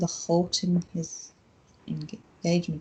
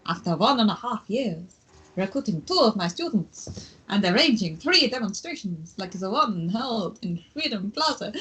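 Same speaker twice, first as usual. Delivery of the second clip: put-on German accent. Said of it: "You sound like Count Von Count".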